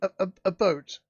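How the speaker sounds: stammering official, still rattled by the attack; flustered governor. Acted. GM voices governor.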